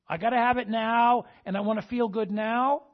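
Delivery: voicing instant gratification. Voicing man's craving for instant gratification.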